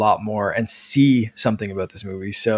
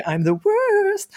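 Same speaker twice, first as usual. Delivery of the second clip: high, slow, drawn-out whine; John Ralphio voice; much slower than usual. Retold or imitated. Podcaster mimicking John Ralphio, high and slow. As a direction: stretch it out like a smug brat. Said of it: "a tiny bit of John Ralphio".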